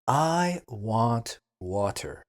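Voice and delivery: slow, careful example sentence; slow model sentence. Shown as a demonstration. Teacher models a sentence for beginners, slow and clear. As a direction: say it slowly for learners. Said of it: "For example".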